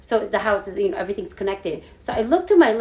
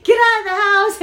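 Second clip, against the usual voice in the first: much higher, louder scream; 11 semitones higher, 7 dB louder than usual. Retold or imitated. Screaming at her niece to leave the burning house, loud. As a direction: yell at her to get out. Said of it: "screaming at her".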